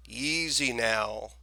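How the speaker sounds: put-on slow, soothing old man; calm murmur. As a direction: settle the boy down gently. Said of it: "murmured the storekeeper".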